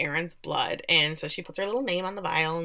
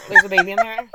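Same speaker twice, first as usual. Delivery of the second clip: much higher and louder, mock disbelief; incredulous squeak; 10 dB louder, faster than usual. Host mocking the pregnant father plot, incredulous squeak. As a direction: squeak it out in fake amazement.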